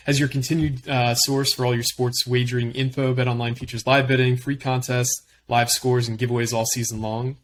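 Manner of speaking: brisk sponsor read. Acted. Host reading the sponsor spot to listeners, upbeat ad voice. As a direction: sell the sportsbook like a radio spot.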